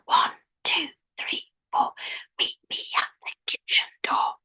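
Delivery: rhythmic whispered rhyme; hushed, voiceless counting chant; whispering voice. Shown as a demonstration. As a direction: whisper it to a steady beat. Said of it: "do it in a whispering voice".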